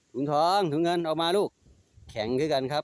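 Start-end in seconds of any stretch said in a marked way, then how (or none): 0.1-1.5 higher, louder call to the pets; sing-song pet call, higher and louder. Real, not acted. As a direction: call them to come out. Calling pets by name.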